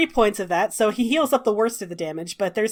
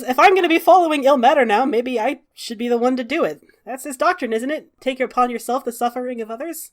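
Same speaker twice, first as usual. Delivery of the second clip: fast, eager, higher voice; eager offer; 4 semitones higher, 4 dB louder, faster than usual. Acted. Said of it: "He says".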